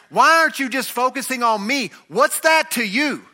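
high, exasperated mock cry; imitated scream. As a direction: plead it high, stretching out the final question. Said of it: "Jesus is screaming at the top of his lungs".

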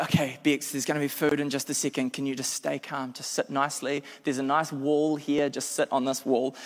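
a soft, placating plea; soothing. Retold or imitated. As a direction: gently talk a hangry partner down. Calming hungry angry girlfriend.

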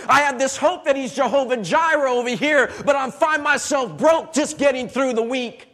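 forceful, punchy sermon cadence; impassioned preaching. Real, not acted. Preacher sets hope in God against sickness and battles, impassioned preaching. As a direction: pound out each struggle to the congregation.

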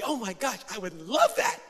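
mock delighted gush; happy. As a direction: imitate a cheery woman thrilled by the offer. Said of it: "she was still happy".

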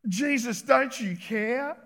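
"don't you care" drawn out slowly, rising; a lightly acted hurt plea; plaintive complaint. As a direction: Martha to Jesus, mildly aggrieved, slow. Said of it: "Have you said that before".

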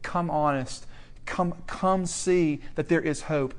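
low, gentle pleading; calm, tender call; gentle appeal. Real, not acted. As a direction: invite them softly to come back. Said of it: "I gently want to pull us back and say".

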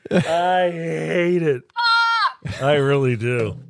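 very slow, whiny complaint; exaggerated whine. Real, not acted. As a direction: drag it out like a groan. Complaining about being helped.

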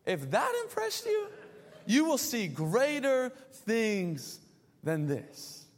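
Jesus as a laid-back pal, with a laugh; Jesus, playful. Retold or imitated. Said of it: "And Jesus is like".

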